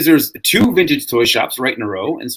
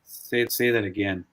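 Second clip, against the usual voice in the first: slow and softer, imitating the clerk; real slow; 3 semitones lower, 6 dB quieter, slower than usual. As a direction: drag out the request, mocking it. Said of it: "He just says it real slow".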